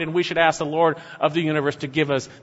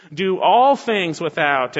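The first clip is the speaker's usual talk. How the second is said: "all" drawn out and emphasized; slow down and lean on "all"; emphatic stretched "all" in "all things"; stress on "all"; slower than usual. Shown as a demonstration. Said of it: "and it's emphatic".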